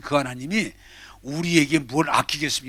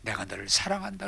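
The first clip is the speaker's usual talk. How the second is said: lower, softer tender divine voice; voice of God; 7 semitones lower, 9 dB quieter than usual. Acted. Preacher voicing God to the weeping woman, low and soft. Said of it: "하나님이".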